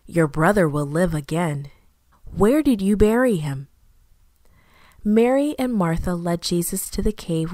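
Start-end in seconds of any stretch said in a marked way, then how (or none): 0.0-3.7 gentle reassurance; kindly. Acted. Jesus kindly reassuring Martha, gentle and calm. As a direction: speak kindly to a grieving sister. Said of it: "Jesus spoke kindly".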